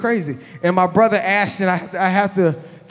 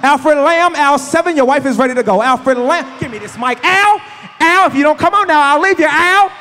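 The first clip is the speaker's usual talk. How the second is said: loud, higher paging call over the mic; mock store announcement; 4 semitones higher, 3 dB louder than usual.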